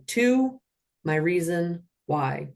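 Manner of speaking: slow, deliberate official cadence; measured robotic call. Shown as a demonstration. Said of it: "like a robot with this cadence".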